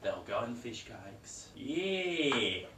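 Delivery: put-on broad Australian accent, half-joking; a mock Aussie cooking guest; hammed-up Aussie accent.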